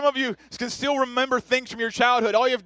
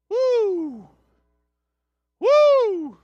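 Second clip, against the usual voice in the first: high, loud, strained whoops at a bad smell; mock gagging whoop; 12 semitones higher, 6 dB louder than usual. Father whooping at his toddler's dirty diaper, hammed-up. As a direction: yelp as if the stench hits you.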